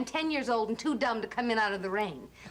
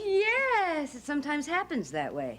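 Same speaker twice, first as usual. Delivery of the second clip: sarcastic; 2 semitones higher than usual. Acted. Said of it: "you don't have to be sarcastic with me".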